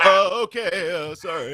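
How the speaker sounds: high, timid "oh, okay, sorry"; meek camera guy. Retold or imitated. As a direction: play the cowed new guy backing down. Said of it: "He's like".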